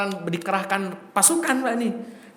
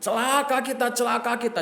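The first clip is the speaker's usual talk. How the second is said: imitated high-pitched wailing appeal; mock crying for help; 5 semitones higher than usual. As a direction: raise a singsong alarm, imitating a panicked herald. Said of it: "Kemudian dia teriak-teriak".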